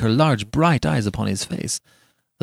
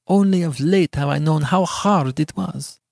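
higher-pitched, tender heroine; tender answer; 6 semitones higher than usual. A narrator's reading. Beatrice answering Giovanni's question, tenderly. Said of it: "answered she tenderly".

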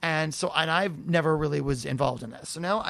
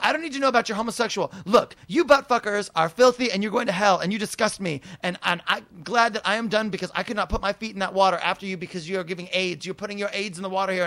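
crazy rant; 2 semitones higher than usual. Retold or imitated. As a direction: imitate a ranting bigot, easing down gradually. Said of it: "going on this crazy, crazy rant".

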